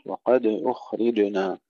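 slow recital, bouncing the د and ج of وقد أخرجنا; small released bounce on د and ج in وقد أخرجنا; qalqala on daal, jeem. Shown as a demonstration. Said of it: "القلقلة في الجيم وقبلها في الدال".

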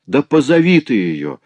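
husband urging his wife to call her mother; urgent appeal. A narrator's reading. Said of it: "обратился Морель к жене".

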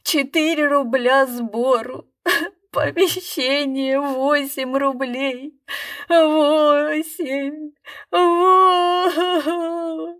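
high, slow sobbing lament. A narrator's reading. Magician sobbing about takings and rent, high and slow. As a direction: sob through the numbers. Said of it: "фокусник всхлипывал".

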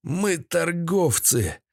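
put-on high, drawn-out old villain's grumble; grumbling. A narrator's reading. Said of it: "проворчал Седой".

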